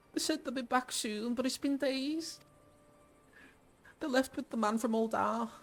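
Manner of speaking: put-on high-pitched Liverpool child; small, high Scouse voice; Liverpool accent. A Scouse child asking a stranger after missing parents, Liverpool accent. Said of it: "She's gonna be from Liverpool".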